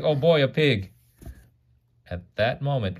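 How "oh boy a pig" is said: higher, louder gleeful monster; greedy delight at spotting dinner; hungry monster. Acted. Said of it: "He's like".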